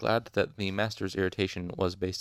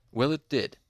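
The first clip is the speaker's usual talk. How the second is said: louder, higher bitter retort; 6 semitones higher, 5 dB louder than usual. A narrator's reading. Injured master retorts to the student, bitter. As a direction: throw it back resentfully. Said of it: "Hem said bitterly".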